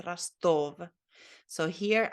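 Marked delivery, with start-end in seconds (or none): 0.0-0.9 Rostov with stress on the second syllable, ras-TOV. Shown as a demonstration. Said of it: "This one has the emphasis".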